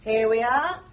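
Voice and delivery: panting after the stairs; puffing, breath short from climbing. Acted. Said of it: "Oh, I'm a bit out of breath".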